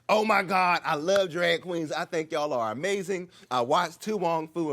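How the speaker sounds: high, loud gushing; nervous fan gushing at a drag queen; gushing fanboy. Retold or imitated. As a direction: gush like an overeager fan. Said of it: "So I'm like".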